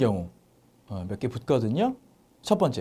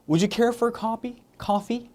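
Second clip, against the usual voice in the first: slow and higher, stress on care; slow, high polite offer; 9 semitones higher, much slower than usual. Shown as a demonstration. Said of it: "해도 되고". (천천히 공손하게)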